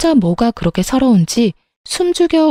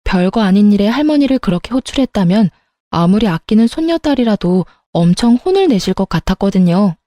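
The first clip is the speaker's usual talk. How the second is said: ordinary delivery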